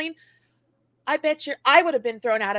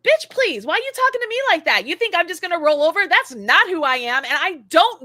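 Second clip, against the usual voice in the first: higher, faster, louder defiant retort; sassy comeback; 5 semitones higher, 4 dB louder than usual. Retold or imitated. Talking back to a rude customer, sassy and fast. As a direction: fire it back at them quickly. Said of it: "snapping back at rude customers".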